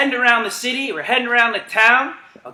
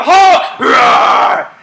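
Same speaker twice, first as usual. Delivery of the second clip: higher, loud laughing shout into a roar; excited shout; 5 semitones higher, 8 dB louder than usual. Real, not acted. Coach shouting the Hulk command mid-run: excited laughing roar. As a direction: whoop it out while running.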